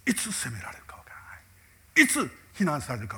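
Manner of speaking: a fearful whisper with no voice in it. Acted. Preacher voices the fear at home in a whisper. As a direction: breathe it out as a secret dread. Anxious inner voice of family.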